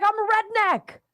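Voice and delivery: high, emphatic imitation of a redneck; mock Florida redneck. Host imitating a Florida man who rejects soccer, mock redneck. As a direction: play a stubborn redneck, punching up high. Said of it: "Here's a Florida man".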